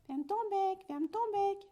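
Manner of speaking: loud scolding hen shout; exasperated mother hen yelling. A narrator's reading. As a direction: yell at the chatterbox to shut up. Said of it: "mère poule se met à crier".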